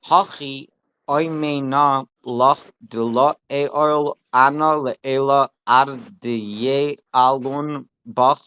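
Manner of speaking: deliberate, drawn-out reading of Aramaic scripture; slow text recitation. Real, not acted. Teacher reading Aramaic text to a student, slow deliberate recitation. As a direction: read it out slowly, word by measured word.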